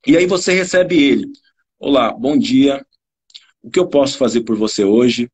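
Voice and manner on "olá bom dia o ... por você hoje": flat greeting. Shown as a demonstration. Attendant receives a customer entering the shop, flat and low. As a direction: greet in a low monotone, without intention. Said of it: "numa entonação completamente diferente".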